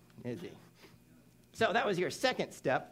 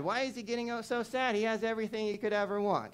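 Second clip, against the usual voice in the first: higher, bewildered question; puzzled wonder; 9 semitones higher, 3 dB louder than usual. Retold or imitated. Keepers wondering why the pampered bat is sad, raised pitch. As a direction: ask it baffled.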